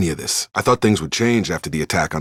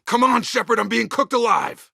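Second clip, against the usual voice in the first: desperate plea. Acted. Trapped and overheating, urging Shepard to hurry, panicked cry. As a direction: yell at Shepard like the heat is closing in.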